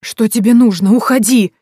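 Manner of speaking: scared, high, loud cry to go away; shrill with panic, shrieking; frightened shriek. A narrator's reading. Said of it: "раздался испуганный голос Кэролайн, в котором сквозили визгливые нотки". (испуганный визгливый крик)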